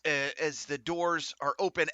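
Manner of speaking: ordinary talk, nothing marked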